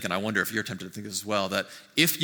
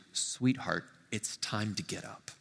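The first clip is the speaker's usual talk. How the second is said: soft, tender wake-up call, much softer at the end; gentle; 2 semitones lower, 6 dB quieter, slower than usual. Retold or imitated. Jesus waking the dead girl, hushed and tender. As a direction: coax her awake, ever so gently. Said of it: "there's a gentleness there".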